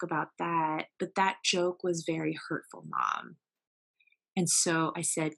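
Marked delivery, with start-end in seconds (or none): none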